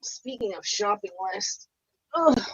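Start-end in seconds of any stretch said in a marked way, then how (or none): 2.1-2.4 effortful groan. Real, not acted. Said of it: "my back hurts".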